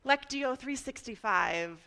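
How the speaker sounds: slow, mild infomercial pitch. Shown as a demonstration. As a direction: plug it like a little TV ad. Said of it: "I wanna sound like a little infomercial".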